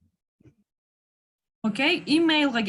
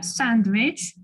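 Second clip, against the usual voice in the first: Sandwich with the first syllable stressed and drawn out; 2 semitones lower than usual. Shown as a demonstration. Teacher showing where stress falls, Sandwich stressed on the first syllable. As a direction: lean on the SAND in Sandwich. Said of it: "Биринчи немге түшүп атат".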